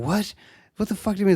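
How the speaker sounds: high, incredulous imitation; mock disbelief. Confused customer to the shop clerk, mock incredulous. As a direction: act baffled, pitch jumping up.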